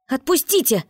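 high cry to be let go; frightened cry. A narrator's reading. Boy pulled from the wardrobe cries out high in fright. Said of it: "раздался крик".

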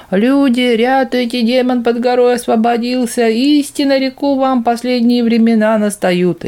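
high, loud, slow roaring alarm; bellowing. Acted. Old man runs away bellowing in panic. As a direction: bellow it like a terrified prophet. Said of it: "ревел он на бегу медведем".

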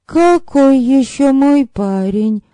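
put-on high, baffled girl's voice; bewildered question. A narrator's reading. Girl asked about her boyfriend, bewildered. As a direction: ask back in high-pitched confusion. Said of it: "растерянно переспросила Ирка".

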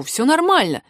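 smooth things over peaceably; peacemaker's lifted tone; conciliatory. A narrator's reading. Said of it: "сказал я миролюбиво".

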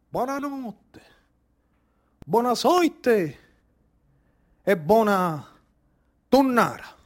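hushed farewell. Acted. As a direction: bid the tonnara goodnight almost under the breath. Farewell blessing after the tuna slaughter. (congedo sussurrato, lento)

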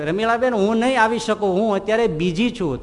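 mild call back. Retold or imitated. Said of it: "બૂમ પાડી કે".

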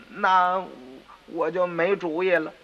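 usual speaking voice

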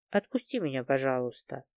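near whisper. A narrator's reading. The girl begs Valet at gunpoint in a near whisper. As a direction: breathe the plea almost silently. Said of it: "почти шёпотом попросила я".

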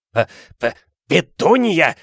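stuttering, then a high loud gasp of a name; stammering gasp. A narrator's reading. Vernon to his wife in shock, stammering gasp. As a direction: choke on the shock. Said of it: "ахнул он".

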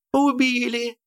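high panicked shriek; screaming. A narrator's reading. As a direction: shriek it in horror. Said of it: "истошные женские крики".

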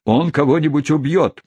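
high, alarmed cry; squealing. A narrator's reading. Women fear someone will get killed, squealing. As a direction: squeal it in alarm, pitched well up. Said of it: "завизжали женщины".

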